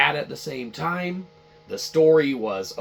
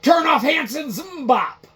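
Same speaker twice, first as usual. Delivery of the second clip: high frantic yelling, much louder; panicked shout; 13 semitones higher, 7 dB louder than usual. Retold or imitated. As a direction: scream at the staff to kill the music. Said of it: "They're like".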